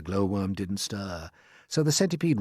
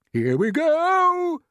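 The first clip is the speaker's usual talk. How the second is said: high, loud and slow; excited shout; 7 dB louder, much slower than usual. Acted. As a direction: whoop it with excitement. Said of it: "shouted the old green grasshopper".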